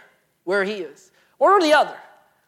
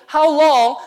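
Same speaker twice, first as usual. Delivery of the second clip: pleading; 6 semitones higher, 8 dB louder than usual. Acted. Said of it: "he's pleading".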